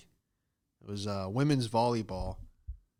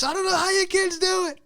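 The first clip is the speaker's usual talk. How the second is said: mock old man; 8 dB louder than usual. Imitating the old man mockingly.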